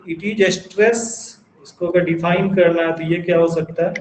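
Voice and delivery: slow, word-by-word dictation pace; dictating a definition to note-takers, very slowly. Shown as a demonstration. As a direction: spell it out slowly so students can write it down.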